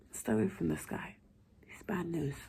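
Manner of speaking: hushed warning in her ear; whispered warning. A narrator's reading. Colleague warning the doctor in her ear, whispering. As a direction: warn her secretly. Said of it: "gets closer to my ear and whispers".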